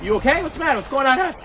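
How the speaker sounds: a hint of a concerned mom; mother's questioning voice. Mother meeting her son at the door, lightly voiced questioning.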